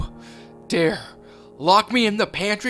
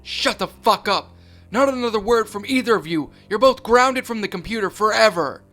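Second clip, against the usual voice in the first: furious yelling; 7 semitones higher, 9 dB louder than usual. Acted. Mother grounding both sons forever, furious loud yelling. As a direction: bellow it down at them.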